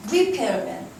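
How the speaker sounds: 리페어맨 with stress on 페어; teacher models 리페어맨 stressing the middle; stress demo. Shown as a demonstration. Teacher models word stress for students. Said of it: "이라고 읽어야 돼".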